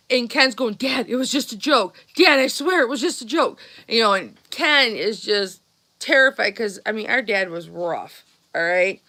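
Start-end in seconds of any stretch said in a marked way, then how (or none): 0.7-3.6 scared pleading. Retold or imitated. Terrified brother pleading with dad.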